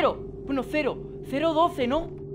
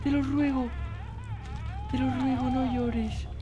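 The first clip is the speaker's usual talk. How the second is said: soothing plea. Pretend. Soothing something crying in game.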